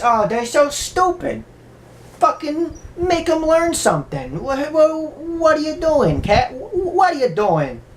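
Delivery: high mock rant at the kids; hammed-up cranky dad; yelling father. Father rants at the kids and the cat, high mock yell. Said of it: "He's like".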